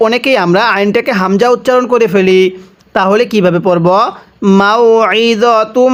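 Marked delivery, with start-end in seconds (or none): 4.6-5.9 মাউইযাতুম with pressed throat ayn; throaty ayn. Shown as a demonstration. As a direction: squeeze the আইন from the throat. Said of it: "গলার মধ্যে একটু চাপ দিয়ে পড়ব".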